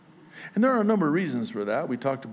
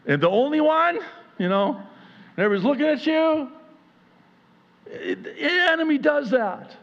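rising intensity; 13 semitones higher, 4 dB louder than usual. Real, not acted. Preaching builds to full force.

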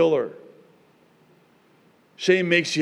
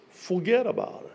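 put-on New York accent; 3 semitones higher than usual. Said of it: "New Yorkers say it like this".

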